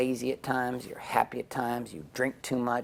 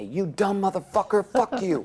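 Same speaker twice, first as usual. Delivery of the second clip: high, loud mock scream of cursing; retold screaming wife; 9 semitones higher, 3 dB louder than usual. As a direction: act out the wife yelling from the balcony. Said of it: "screaming at me".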